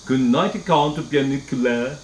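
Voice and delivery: a light, mocking hint of a Transylvanian count; sarcastic Transylvanian accent. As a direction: tease the bunny with a half-hearted Transylvanian vampire accent. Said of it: "his attempt at a Transylvanian accent".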